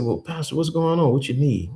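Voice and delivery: a hint of a drowsy younger self; sleepy self. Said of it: "I said".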